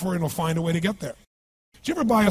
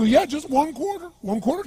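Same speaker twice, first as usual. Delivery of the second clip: put-on drunk beggar voice; 10 semitones higher than usual. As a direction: whine it like a tipsy beggar asking for change.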